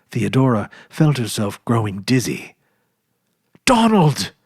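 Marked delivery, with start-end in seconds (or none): 3.6-4.3 a stunned gasp of recognition; gasped in shock. A narrator's reading. Sister recognizing her lost brother, gasping. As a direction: gasp his name, high and loud. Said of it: "she gasped".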